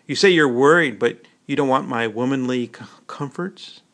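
annoyed reproach, pushing back; mad. Acted. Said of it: "This made her mad".

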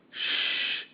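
a sharp whispered shh; hushing whisper. Acted. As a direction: hush them so you can hear. Hushing others to listen.

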